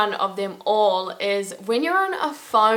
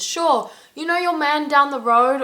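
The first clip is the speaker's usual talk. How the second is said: lightly acted Irish chat, pitched up; higher, lightly put-on quoted voice; Irish slang example; 6 semitones higher than usual. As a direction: imitate a local opening a chatty remark. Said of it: "they start their sentence".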